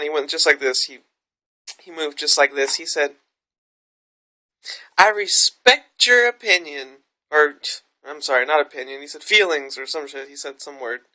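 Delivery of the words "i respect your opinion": slow, measured imitation of the doctor; a light, slow take on the doctor's reassurance. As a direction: spell out each word the way he did. Quoting the doctor's line.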